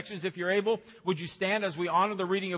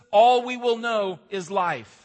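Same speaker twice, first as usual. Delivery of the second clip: slow, louder proclamation; proclaiming; 4 semitones higher, 7 dB louder, slower than usual. Acted. Pastor proclaiming life in Jesus to the church, slow and loud. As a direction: declare it as good news. Gospel climax.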